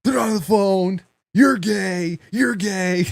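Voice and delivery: high-pitched retold outrage; pissed off. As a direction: imitate an exasperated prank victim. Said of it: "he'd get pissed again".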